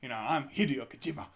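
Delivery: lightly put-on bad Japanese accent, half laughing; a joking, hammed-up Japanese accent impression. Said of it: "Worst, worst Japanese accent ever".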